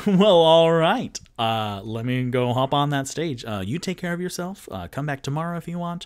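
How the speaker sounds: lightly voiced cheerful bard, big start; a hint of a hearty minstrel, loud at first; mild hearty bard; Three Strings' voice. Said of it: "Three Strings goes".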